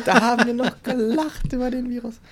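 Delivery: high, loud laughing voice; mock laughing.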